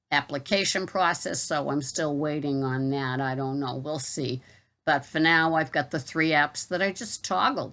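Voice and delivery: casual Boston accent chat. Real, not acted. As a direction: talk it through in a Boston accent. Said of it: "I hope you enjoyed my Boston accent video".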